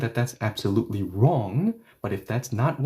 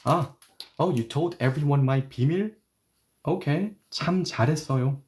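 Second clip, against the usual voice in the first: quick mock praise for a betrayal; sarcastic; 2 semitones higher, faster than usual. Shown as a demonstration. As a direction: congratulate the blabbing friend ironically. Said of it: "sarcasm. So I'm going to say".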